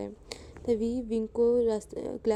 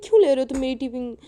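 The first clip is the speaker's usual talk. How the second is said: crying; 3 semitones higher, 5 dB louder, faster than usual. Acted. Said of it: "विंग रोने लग जाता है".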